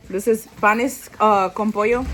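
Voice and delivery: proud food reveal; loud announce. Real, not acted. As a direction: announce "panes, uh, con pollo" with a rising call. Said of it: "first announcement of dish".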